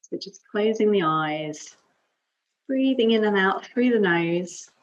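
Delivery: calm yoga teacher's guiding voice, long pauses between phrases; guided meditation. Acted. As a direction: guide them gently into breath and stillness. Leads calm breathing and affirmation.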